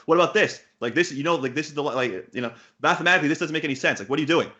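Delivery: firing questions in disbelief, lightly acted; retold exasperated rant. Coach tearing into a student's bad line, exasperated. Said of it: "I would get so pissed".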